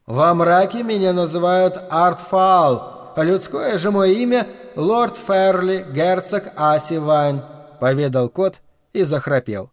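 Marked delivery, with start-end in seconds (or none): 0.1-7.4 solemn demon voice. Acted. Demon reveals true name.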